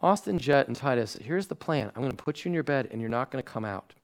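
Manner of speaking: soft, even bedtime instructions; a calm parent explaining the plan, softly; really calmly. Retold or imitated. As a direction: lay out the plan nice and gentle. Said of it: "Really calmly".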